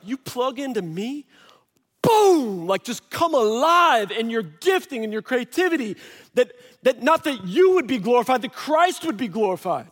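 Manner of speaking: excited voicing of Christ. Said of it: "And he's like".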